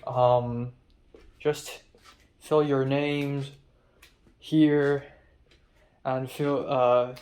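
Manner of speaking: slow, halting stab at Irish; amateur Irish accent, drawn out; attempted Irish accent. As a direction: imitate an Irish woman giving instructions. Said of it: "trying to do an Irish accent".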